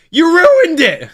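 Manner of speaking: high, drawn-out mock shout; play-scold a viewer in a loud wail; mock outrage.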